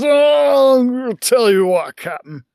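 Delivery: put-on slow, slurring drunk boast; drunk man. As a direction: drag it out like a tipsy patron. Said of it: "pretty well into his cups".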